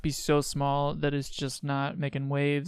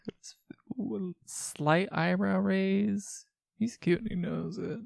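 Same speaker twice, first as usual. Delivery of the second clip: whisper; 4 semitones higher, 3 dB quieter, slower than usual. Real, not acted. Reacting to dating profile photo.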